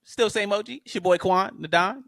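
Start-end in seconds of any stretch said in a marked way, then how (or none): 1.6-2.0 "the Don" stretched with a rising swagger. Shown as a demonstration. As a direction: say "the Don" long and proud. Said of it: "if you don't say the Don, you ain't saying it right".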